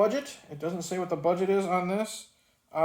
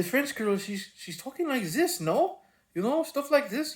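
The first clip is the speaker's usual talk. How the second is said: put-on stereotypical French accent, higher and swooping; bad French accent; 8 semitones higher than usual. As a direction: do a hammed-up French girl accent. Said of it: "the bad stereotypical French accent".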